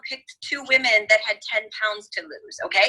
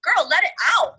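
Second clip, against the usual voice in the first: put-on much higher, gushing 'Oh my God, girl'; excited encouragement; 9 semitones higher than usual. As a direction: cheer her on to let the tears out. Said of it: "And I was like".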